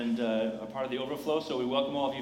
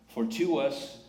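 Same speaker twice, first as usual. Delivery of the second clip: scripture reading. Shown as a demonstration. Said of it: "Isaiah nine six".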